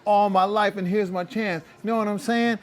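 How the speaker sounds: high, put-on American street accent; imitating a player's fake American accent; mock American accent. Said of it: "I think it goes a little something like this".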